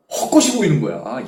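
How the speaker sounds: ordinary talk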